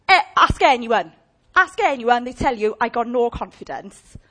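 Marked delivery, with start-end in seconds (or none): 2.8-4.2 mock whine. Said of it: "Like that, doing all of that".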